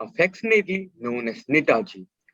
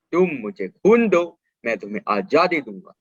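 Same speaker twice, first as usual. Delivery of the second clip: rousing slogan; 3 semitones higher, much faster than usual. Acted. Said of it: "I gave the slogan".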